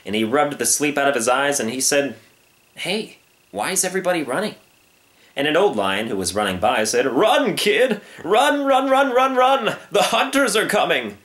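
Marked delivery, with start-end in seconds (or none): 2.8-4.6 higher, innocent questioning voice; a young lion wondering aloud; lightly voiced puzzled cub. Young lion wakes, asks puzzled. 7.1-11.2 high, loud cry of alarm; frantic storybook warning; urgent warning shout. Acted. Old lion warns while fleeing.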